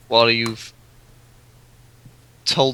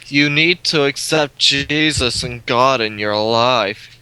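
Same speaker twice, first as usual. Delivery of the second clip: camp preacher; slower than usual. Retold or imitated. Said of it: "it probably wasn't as camp as that".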